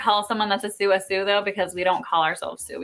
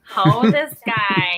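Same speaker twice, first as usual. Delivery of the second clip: long, loud "Ho" breaking into a laugh; mock amazement with a giggle; laughing tease; 5 dB louder, much slower than usual. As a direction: drag it out slowly, teasing, and crack up. Acted teasing exclamation with laugh.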